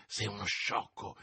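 soft, low aside; muttered retort. A narrator's reading. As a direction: murmur it so others won't hear. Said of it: "borbottò Porthos". (rimbrotto sottovoce)

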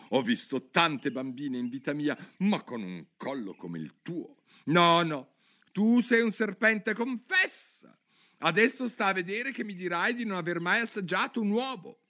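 worried pigeon complaining on and on; fretful pigeon. Acted. (piccione ansioso che si lamenta)

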